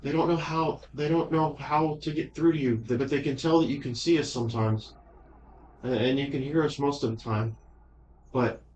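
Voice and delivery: put-on a shy child thanking someone; little girl voice.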